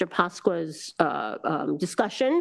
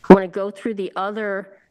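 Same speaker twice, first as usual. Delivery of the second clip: speaking through a tickle in the throat; frog in throat; 3 semitones higher, 8 dB louder than usual. Real, not acted. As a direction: talk past a scratchy throat that needs clearing. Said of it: "I'm choking here".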